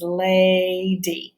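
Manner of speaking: lady drawn out in two slow syllables; word sounded out. Shown as a demonstration. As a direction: stretch "lady" with a long A and a long E. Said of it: "which means there's two syllables".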